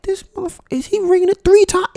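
incredulous disbelief. Retold or imitated. Disbelief at repeated ringing.

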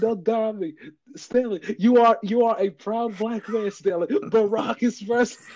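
high, pleading mock panic; frantic high plea over a fainted coworker; panicked Michael. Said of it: "he's like".

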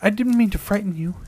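put-on high, whispered little boy apology; a small boy, breathy and worried; ghost child whispering. A narrator's reading. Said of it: "he cried".

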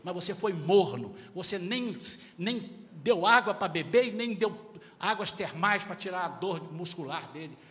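forceful pulpit emphasis, not angry; emphatic preaching. Real, not acted. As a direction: drive each word home to the flock. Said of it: "eu tô falando com ênfase".

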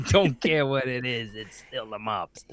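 lightly voiced mobster; playful tough-guy mobster; friendly threat. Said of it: "that Irish mobster mentality".

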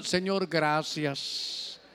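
low, soft, drawn-out thanks; thankful prayer. Acted. Relieved student to the Lord after passing the exam, quiet thanks. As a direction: murmur a slow mock prayer of thanks. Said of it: "usted solo diga".

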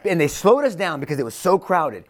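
high, heated complaint; indignant protest. Acted. Jairus blaming the crowd that held Jesus up, indignant.

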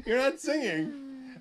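giggling while tickled; laughing helplessly mid-song; being tickled. Real, not acted. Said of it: "Last time you just tickled me".

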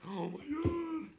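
drawn-out, high-pitched oh my God; excited high squeal. Retold or imitated. Telling a friend about the big offer, slow high squeal. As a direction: squeal it slowly, giddy. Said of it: "I'm also getting excited".

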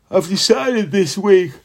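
words stretched by a yawn. Real, not acted. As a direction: talk slowly through a yawn. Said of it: "Oh, excuse my yawning".

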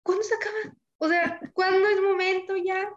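high pleading cry of when it will end; a touch of mock crying; whiny despair. To her friend about the endless pandemic, a half-crying plea. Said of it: "y luego ya así de que".

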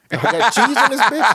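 high, loud comic questioning; mock exasperation. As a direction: grill the pizza clerk, voice way up. Sarcastic questions to pizza shop.

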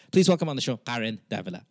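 mild announcer welcome, Karen Davila said the American way; a hint of a formal show intro; on-air intro voice. Host on air introducing a guest, light announcer tone. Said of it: "I'm gonna go".

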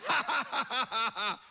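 ha ha ha laughed out big; acting out the friend's long laugh; retold hearty laugh. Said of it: "just began to laugh".

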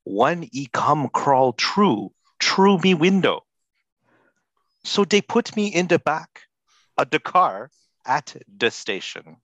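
slow, grave reading of rap lyrics; solemn dramatic reading. Shown as a demonstration. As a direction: read it like great literature. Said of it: "A reading from Snow".

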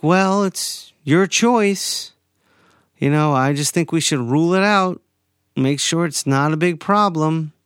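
mimicking the ENT's dismissive attitude; mock snippy attitude. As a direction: imitate the doctor's snippy tone. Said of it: "she cops an attitude with me".

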